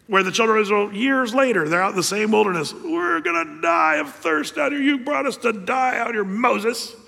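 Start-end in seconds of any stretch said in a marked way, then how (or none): 2.7-6.9 whining crowd. Acted. Israelites whining of thirst.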